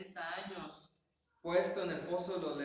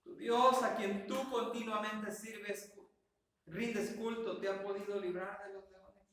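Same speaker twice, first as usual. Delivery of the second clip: sorrowful call, pitched up; saddened voice; 4 semitones higher, 4 dB louder than usual. Acted. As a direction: ask it grieving, drawing the words out. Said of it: "Llegó diciendo con esa voz entristecida".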